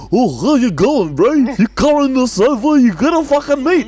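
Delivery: put-on cheerful Greek Aussie accent greeting a customer; Greek guy impression. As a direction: ham up a jolly Greek Aussie butcher's accent. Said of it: "He's a big fat Greek guy that's like".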